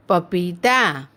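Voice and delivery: पपीता slowly, with पी held; drawn-out teaching demo of पपीता; long ee. Shown as a demonstration. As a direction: stretch the vowels in पपीता. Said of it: "शब्द का उच्चारण थोड़ा लंबा होता है".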